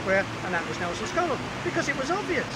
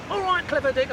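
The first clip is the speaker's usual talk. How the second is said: imagined heckle, higher and louder; mock audience shout; 5 semitones higher, 5 dB louder than usual. Viewers heckling the presenter, mock shout. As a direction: heckle like a know-it-all crowd. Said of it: "I hear you all shout".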